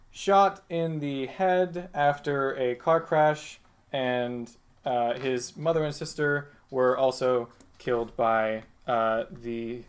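slow, deliberate reading of a file; a lightly voiced demon clerk reporting to Satan; clipboard-reading assistant. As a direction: read the record back like a fussy clerk.

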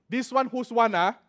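Singaporean accent. Shown as a demonstration. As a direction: ask it Singaporean-style. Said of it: "One. It's a very good word".

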